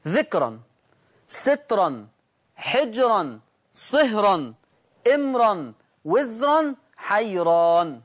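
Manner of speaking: each word read with a heavy, full-mouthed r, ذكرا as dhikran; heavy r recitation. Shown as a demonstration. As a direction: recite the list slowly with tafkhim on every r. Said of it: "والتفخيم مقدم".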